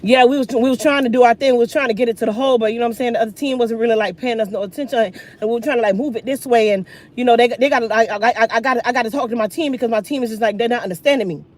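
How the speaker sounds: lightly mock a rambling young player; hesitant, stumbling postgame mumble; mumbling new athlete. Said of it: "The new age".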